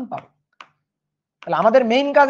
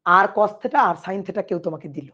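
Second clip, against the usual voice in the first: ordinary talk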